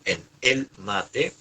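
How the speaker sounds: el mate said slowly, word by word; slow, measured teacher's example; deliberate repetition. Shown as a demonstration. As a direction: spell out el mate slowly for the class. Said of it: "vuelvo a repetir".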